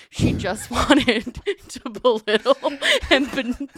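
giggling at how petty the teacher was; laughing disbelief. Real, not acted. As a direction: laugh through the outrage.

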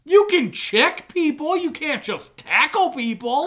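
high, loud, slowed-down correction; indignant high-pitched explaining at full volume; exasperated shout. Real, not acted. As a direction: yell it slowly, as if they know nothing. Heated correction in sports argument.

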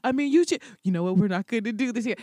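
imitating Bernie. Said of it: "And he was like".

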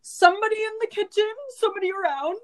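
high mock dad voice calling for help; imitating dad. Girl mimicking her bossy dad cooking a turkey. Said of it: "he's just like".

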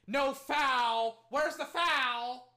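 high, indignant yell; loud protest. Real, not acted. Fan demands a foul from referees, loud indignant protest.

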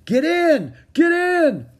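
high, loud repeated command; shouted order. A narrator's reading. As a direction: shout like an officer loading a lifeboat. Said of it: "a uniformed man shouted".

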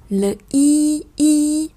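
"i" as a pure French i, not "uy"; clear French i. Shown as a demonstration. Teacher to students, modeling a clean French i. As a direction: say "i" clean and high, lips spread. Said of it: "đây là âm i nha".

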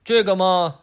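high, drawn-out bargaining hum; a child stalling for a deal; sly kid. Acted. Adam haggling with dad through the door, sly kid voice. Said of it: "亚当说".

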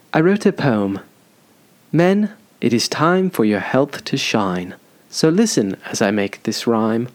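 put-on English accent for a poem; mock English accent. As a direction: recite it in a weird English accent. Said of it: "in a weird accent. I think I'm gonna try it in English".

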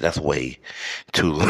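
ordinary talk

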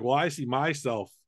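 a terrible mock British accent; a clumsy British accent, the second line rushed fast; bad British accent. Podcaster imitating a British fan, in a bad British accent. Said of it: "Terrible British accent".

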